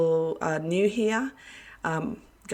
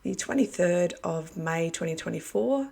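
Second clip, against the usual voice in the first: talking through a worn-out throat; hoarse voice. Real, not acted. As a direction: voice going, a bit hoarse. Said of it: "Pardon my voice".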